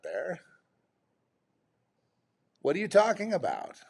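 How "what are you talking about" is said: high, exasperated disbelief; incredulous outburst. Real, not acted. Ranting to viewers about Hollywood, high incredulous outburst. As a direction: spit out the question in outrage.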